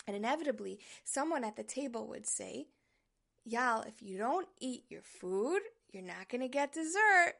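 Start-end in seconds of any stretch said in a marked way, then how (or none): 3.4-7.3 firm adult scolding, rising at the end; stern warning. Retold or imitated. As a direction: warn the child sternly, loudly on dessert. Adult warns picky child at table.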